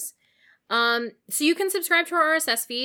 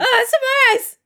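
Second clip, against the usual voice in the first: very high loud pained yell; hit hard crying out; 13 dB louder than usual. Pretend. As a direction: cry out as if hit. Pretending sand in eyes.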